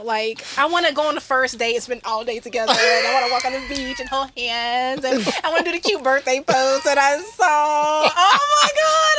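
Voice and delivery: gushing. Real, not acted. Host to the couple, gushing over their romance until tears come. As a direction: get carried away, slowing and crying out at the end. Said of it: "I'm sorry, tears".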